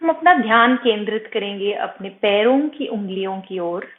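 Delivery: slightly softened meditation voice with long pauses; guided meditation. Acted. Yoga teacher guiding students' attention from toes upward, calm meditation voice. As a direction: guide attention gently through the body, unhurried.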